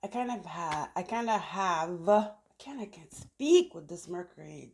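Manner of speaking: false starts, restarting the phrase; stumbling over words. Real, not acted. Tarot reader frustrated at her own tongue, stumbling over words. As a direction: trip over your words and start afresh. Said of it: "you stumble upon your words".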